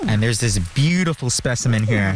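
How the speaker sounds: talking with pen in mouth; words round a pen in the teeth. Real, not acted. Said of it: "I say with my pen in my mouth".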